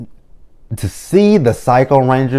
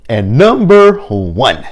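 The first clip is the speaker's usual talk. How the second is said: slow, drawn-out announcer build; dramatic countdown reveal; 2 semitones higher, 5 dB louder, much slower than usual. Acted. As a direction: stretch it out like a big reveal. Drum roll announcement of number one.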